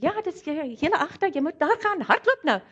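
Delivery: woman speaking Afrikaans. Retold or imitated. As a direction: quote her Afrikaans call to run. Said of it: "heard her speaking Afrikaans".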